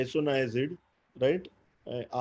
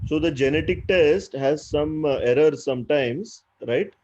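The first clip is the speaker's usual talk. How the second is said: speaking up, louder lecturing voice; talking louder; 5 dB louder than usual. Real, not acted. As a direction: project so the listener can hear. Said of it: "I'll talk louder".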